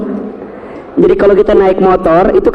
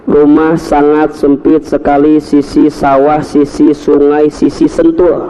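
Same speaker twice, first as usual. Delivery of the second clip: slow, stressed S words; slow alliteration; 5 semitones lower, slower than usual. Shown as a demonstration. Savoring the S words in his address, slowly. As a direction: lean on every S, slowly. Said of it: "S-nya banyak lah".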